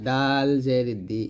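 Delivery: ডাল জের দি with a light dental d; thin dal. Shown as a demonstration. Teacher tells learners dal is light, thin ডাল. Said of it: "ডালটা পাতলা হবে".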